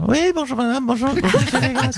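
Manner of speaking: Nathalie Loiseau impression. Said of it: "Bonjour Nathalie Loiseau".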